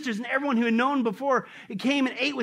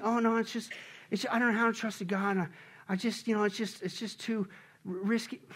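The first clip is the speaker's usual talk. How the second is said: soft, faltering excuse; hesitant doubter; 6 dB quieter than usual. Acted. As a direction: stammer through reluctant doubt. Acts out a hesitant believer.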